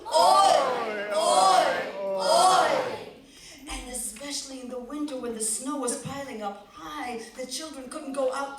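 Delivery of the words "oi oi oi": loud, higher wailing oi oi oi; loud lamenting grandmother; complaining grandmother. Acted.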